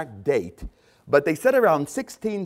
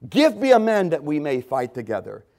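Philistine's challenge; 4 dB louder than usual. Retold or imitated. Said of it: "the Philistine said".

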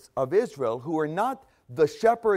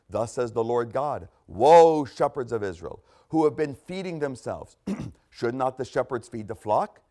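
solemn, measured scripture reading. Acted. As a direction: read God's words with weight. Reads scripture in sermon.

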